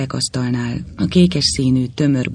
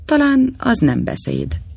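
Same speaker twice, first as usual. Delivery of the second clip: higher, theatrical recitation of "Talán"; a guest behind him mocking, declaiming; 11 semitones higher, 3 dB louder than usual. A narrator's reading. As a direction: recite it like a pompous orator. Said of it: "szavalta valaki mögöttem".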